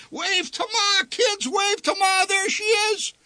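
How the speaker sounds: very high, strained cheer; dad shouting to the kids while spinning; frantic call. Acted. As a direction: call out over the roar of the ride. Father calls out mid-ride.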